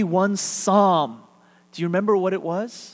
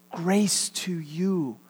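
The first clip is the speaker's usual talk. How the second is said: slow tender blessing; much slower than usual. Shown as a demonstration. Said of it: "subtly shifting it to convey".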